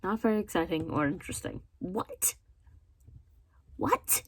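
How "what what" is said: high-pitched, disbelieving "what"; incredulous. Real, not acted. Reacting to a dismissive book review, incredulous. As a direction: squeak it out in disbelief.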